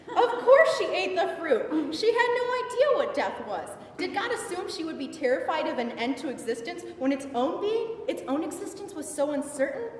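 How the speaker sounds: impassioned Eve defending Lilith; theatrical storytelling with high, exultant peaks; dramatic monologue. Acted. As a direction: perform it as a stage monologue, rising in fervour.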